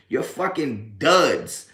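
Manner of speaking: very slow, drawn out insult; slow put-down. Real, not acted. Insulting trolls in chat, slow drawn put-down. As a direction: drag each word, dismissive.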